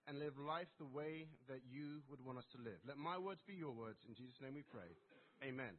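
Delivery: earnest pastor's prayer, softening to the amen. Acted. Pastor leading the congregation in prayer, earnest and hushed. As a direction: pray it humbly, winding down at the end.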